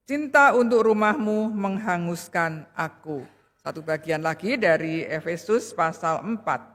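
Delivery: measured, solemn Bible reading voice; scripture reading. Acted. Preacher reads the Bible passage to the congregation, solemn and measured. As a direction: read the verses out steadily to the church.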